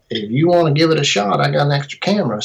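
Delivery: lightly imitated Tennessee accent; a hint of a Tennessee local. Video company guy offering a trial shoot, light Tennessee accent. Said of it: "This is my best Tennessee accent".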